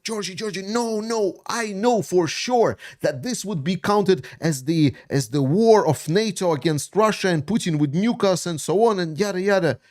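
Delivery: high mocking voice of a panicky doubter; mocking critics. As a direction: ape the people who always warn him, pitched high. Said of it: "it's just like".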